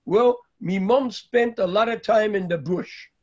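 light fake Australian accent, lightly done; a hint of a put-on Australian accent; barely-there mock Australian accent. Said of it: "with my Australian accent".

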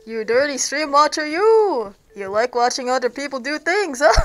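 muffled behind a mask; through a plague doctor mask. Real, not acted. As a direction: talk through a face mask. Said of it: "Can you hear me with the mask on?".

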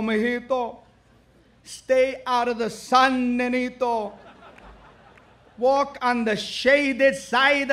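grandfather's advice. Retold or imitated. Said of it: "And he says".

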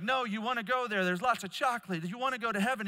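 high, loud imitation of insistent kids; pleading children. Girls urging little brother, retold.

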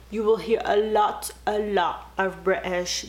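a quick mock British accent; a playful stab at British. Shown as a demonstration. YouTuber showing viewers her best British accent. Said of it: "that was my best British accent".

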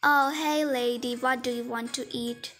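curt playacted customer greeting; rude waitress. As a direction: play a rude waitress, no sweetness. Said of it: "You are so rude".

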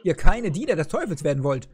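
a hint of a wise old grandpa, steady; lightly voiced grandfather. Opa Kessel warning the boys about the devil, lightly voiced grandpa. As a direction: advise the boys calmly like their grandfather.

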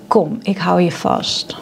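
slow and soft, a comforting offer; slow, soft: kom, ik hou je vast; soft reassuring. Shown as a demonstration. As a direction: hold them gently with your voice. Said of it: "Dat ik kan zeggen".

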